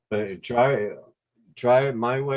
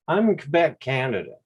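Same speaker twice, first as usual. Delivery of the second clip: a light mock Québécois lilt on "I'm in Quebec, Canada", pitched higher; joking Quebec accent; 5 semitones higher than usual. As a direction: toss it off as a playful hint of a Quebec accent. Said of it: "You can tell by the accent".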